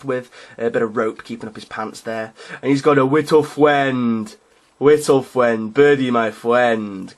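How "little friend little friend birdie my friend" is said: slow, dopey brute lightly voiced; dim Ogryn voice. Hobbyist voicing his model Ogryn, slow dim giant. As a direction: stretch it out like a slow-witted giant. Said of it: "'cause Ogryns are a bit dim like that".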